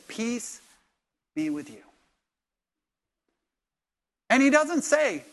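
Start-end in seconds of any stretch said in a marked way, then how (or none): 0.1-1.8 soft, gentle blessing; Jesus greeting Thomas softly, no rebuke; gentle peace. Retold or imitated. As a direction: say it softly to a doubter. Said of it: "He says".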